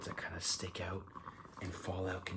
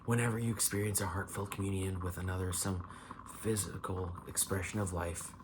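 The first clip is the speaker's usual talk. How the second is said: measured card-text reading; reading aloud; 4 dB louder than usual. Real, not acted. Tarot reader reads the Eagle card to viewer, reading aloud. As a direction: read the tarot card out evenly.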